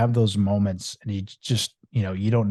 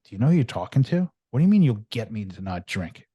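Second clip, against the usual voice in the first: raised, louder, heated confrontation; indignant mock challenge, louder and higher; retold angry outburst; 3 semitones higher, 6 dB louder than usual. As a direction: snap back like he's insulted you, getting in his face. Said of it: "I got pissed".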